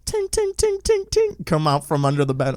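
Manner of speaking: quick run of little "ting" sounds; high, tiny "ting, ting, ting"; imitated tinging. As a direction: imitate a light repeated tinkling. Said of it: "you hear ting".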